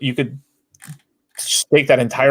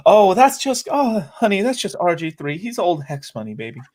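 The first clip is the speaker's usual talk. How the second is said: mock Southern accent; 7 semitones higher than usual. Mocking old-money guys in a hammed-up Southern accent. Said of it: "a Southern voice".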